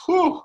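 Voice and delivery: high puffed-out sigh of relief; exhausted whew. Acted. Attacker recovers after the long kicking, exhausted high whew. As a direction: blow out a high, worn-out whew. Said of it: "I was exhausted".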